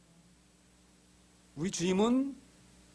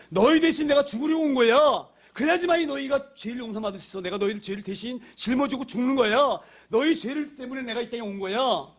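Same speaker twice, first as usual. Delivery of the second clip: higher, urgent preaching delivery; impassioned declaration; 5 semitones higher than usual. Acted. Jesus telling disciples why he came, impassioned. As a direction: press each statement home fervently.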